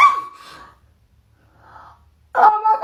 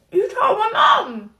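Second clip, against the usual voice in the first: indignant shout; 4 semitones higher, 5 dB louder, slower than usual. Acted. Employee shouts accusation.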